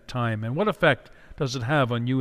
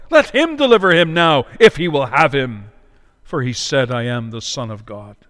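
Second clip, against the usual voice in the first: mocking; 2 semitones lower, 6 dB louder than usual. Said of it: "mocking with the scribes".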